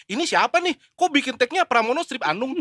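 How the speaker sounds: retold query, rising at the end; retold puzzled question. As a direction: quote a baffled colleague, pitch lifted. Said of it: "Terus ada anak news bilang".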